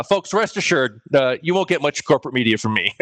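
muffled, talking through a pillow; muffled mic sound. Real, not acted. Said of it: "sounds like he's talking through a pillow".

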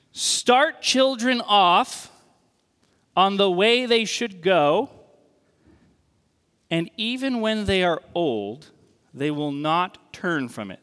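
slow, measured reading of a verse; scripture reading. Acted. Preacher reads the Bible verse aloud to the church, slow and deliberate.

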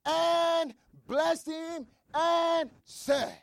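measured, solemn Bible reading; scripture reading. Acted. Preacher reading Genesis to church, solemn.

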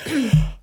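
long mock sigh, sitting back; a heavy relieved sigh; big exhale. Friend imitates Reese sitting back while others argue, with a big exhale. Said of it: "Reese will just sit back like".

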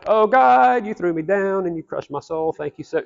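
sing-song parody of a cheery worship line; mock praise song.

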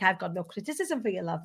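put-on a weak stab at a Welsh accent, barely shifted; half-hearted impression of a Welsh singer; lightly put-on Welsh lilt; rubbish Welsh accent. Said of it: "my really rubbish Welsh accent".

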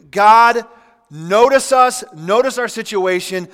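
loud, high desperate plea; pleading cry to God. Retold or imitated.

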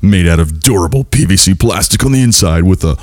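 slow, drawn-out announcer read; wrestling announcer voice. Shown as a demonstration. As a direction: stretch it out like a ring announcer. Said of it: "I'm gonna read this like a sportscaster".

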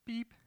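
short dashboard beep imitation; imitated warning beep. Car dashboard warns the driver, imitated beep. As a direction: mimic an electronic beep.

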